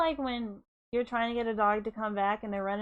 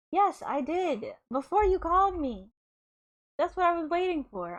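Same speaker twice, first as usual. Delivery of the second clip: fed-up retort; 5 semitones higher than usual. Acted. Steph finally snapping at Sora.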